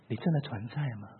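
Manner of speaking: a quiet retold plea to God; hushed prayer. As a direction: pray it alone in an empty church. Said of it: "我说".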